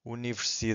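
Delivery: "Universidade" with long "da" and faint "de"; weak final syllable. Shown as a demonstration. Teacher showing a weak, not silent ending on "Universidade". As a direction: stretch "da" in "Universidade", barely sound the last syllable. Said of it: "it's very weak".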